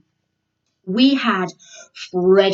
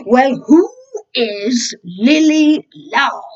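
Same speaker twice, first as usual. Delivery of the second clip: gruff demand; 3 semitones higher, 6 dB louder, slower than usual. Acted. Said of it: "asked Frederick Fire".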